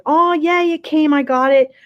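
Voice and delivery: imitating a friend's joy at a parcel; delighted squeal. Reading friend's delighted reply aloud.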